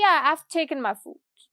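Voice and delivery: relaxed "Yeah, I've taken my food", "I've" run together; casual reply. Shown as a demonstration. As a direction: toss it off to a friend. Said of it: "मतलब मैंने बहुत ही casually बोला".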